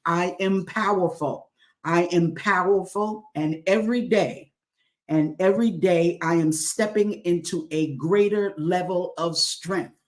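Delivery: measured, deliberate affirmation; slow affirmation. Shown as a demonstration. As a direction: lay each word down slowly. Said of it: "I'm gonna say it slow".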